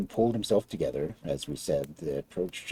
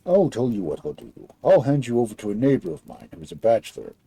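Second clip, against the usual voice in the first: lightly voiced big giant; 3 dB louder than usual. Giant decides.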